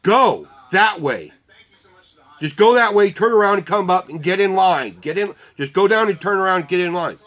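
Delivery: exasperated traffic-marshal commands; insistent directing. Retold or imitated. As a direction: drum simple instructions into confused listeners. Retold directing of confused riders.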